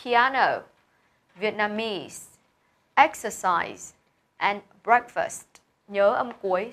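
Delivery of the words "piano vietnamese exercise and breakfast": careful list: piAno, VietnaMESE, EXercise, BREAKfast; each of Piano, Vietnamese, exercise, breakfast set apart with a falling end; word-stress review. Shown as a demonstration. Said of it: "Đọc lại nhá".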